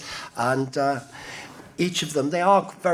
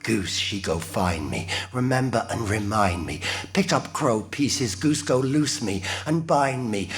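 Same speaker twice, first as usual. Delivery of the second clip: performed poem refrain. Acted. John Crow calling on the Goose, incantatory poem refrain. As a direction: intone it like a closing spell.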